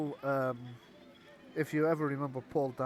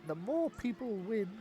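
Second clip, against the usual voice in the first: goblin carny voice; 4 semitones higher, 3 dB quieter than usual. Acted.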